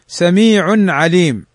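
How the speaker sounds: سميع عليم slowly, the tanwin nun clear before the ain; slow clear reading. Shown as a demonstration. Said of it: "تنوين بعده العين". (قراءة بطيئة لـ سميع عليم مع إظهار التنوين)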